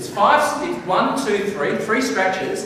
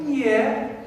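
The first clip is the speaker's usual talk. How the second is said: a reluctant rising "Yeah." that means no; doubtful yeah; 5 semitones higher than usual. Shown as a demonstration. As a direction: say "Yeah." as if you don't really agree. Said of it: "if you listen to the tone".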